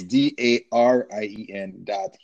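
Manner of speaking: slow, laughing, each letter stressed; spelling it out. Real, not acted. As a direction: spell it again slowly so the R is heard. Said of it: "people hear a V, it's actually an R".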